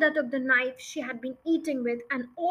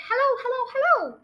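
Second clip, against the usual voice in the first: high, loud parrot call; talking parrot; 11 semitones higher, 4 dB louder, faster than usual. Acted. Parrot suddenly talking to its waiting visitors, high squawky call. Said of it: "Suddenly the parrot said".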